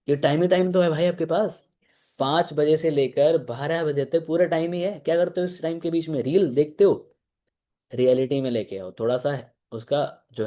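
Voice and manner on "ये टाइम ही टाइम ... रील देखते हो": higher-pitched, needling questions; ego-pricking challenge. Acted. Coach confronting a recruit who claims no time, mildly needling. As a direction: confront them with their free time. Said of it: "उसका ego hurt करो".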